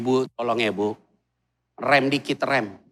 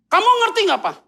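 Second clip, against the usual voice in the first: mock wife; 11 semitones higher, 3 dB louder, faster than usual. Wife asking husband.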